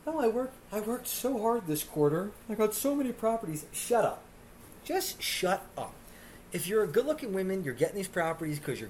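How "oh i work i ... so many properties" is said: higher, whiny put-on bragging voice; a hint of a smug realtor bragging; mock realtor. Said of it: "saying shit like this".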